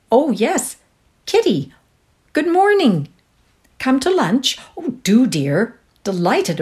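high, bright society chatter; excited phone chat. Acted. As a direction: gush down the telephone.

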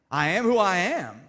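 slow, loud, weighty I am who I am with who stressed; solemn proclamation. Acted. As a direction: boom out I am who I am. Divine name, booming and slowed.

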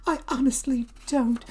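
high, small mock-weepy voice; Debbie crying. Girlfriend glancing at the other man, high mock-tearful voice. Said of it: "Why are you crying".

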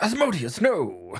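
scolding creature. Acted. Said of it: "and she's like".

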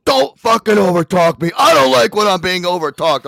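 hammed-up angry caller snapping back; angry customer. Caller angrily refusing to be talked over, mock yelled. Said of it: "He goes".

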